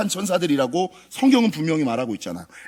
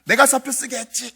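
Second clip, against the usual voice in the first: sing-song ghost taunt; 7 semitones higher than usual. Retold or imitated. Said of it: "뭐 이러더라고요".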